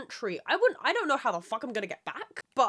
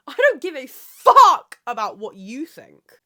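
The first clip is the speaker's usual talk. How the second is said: laughing; 3 semitones higher, 14 dB louder, slower than usual. Real, not acted. Defiant, laughing.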